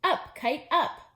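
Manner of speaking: high, loud cheering shout; Toad's rising shout up at the kite. Acted. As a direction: yell the kite skyward with all your hope. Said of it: "He shouted".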